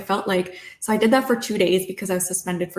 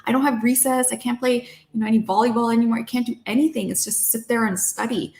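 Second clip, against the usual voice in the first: higher-pitched teenage protest, retold; rebellious complaint; 5 semitones higher than usual. Teenager protesting strict school rules, mock rebellious whine. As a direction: list the grievances like a fed-up student. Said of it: "I was becoming very rebellious".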